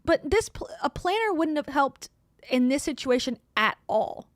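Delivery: high, loud excited protest; excited objection. Real, not acted. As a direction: jump in, pitch up.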